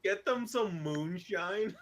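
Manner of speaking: mock hillbilly.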